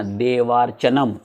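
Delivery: "देवार्चनम" very slowly, holding the आ in वा; लंबा आ उच्चारण. Shown as a demonstration. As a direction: stretch out "देवार्चनम" to show its long आ. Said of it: "आ का उच्चारण करते हैं". ("देवार्चनम" धीरे-धीरे, वा का आ लंबा करके)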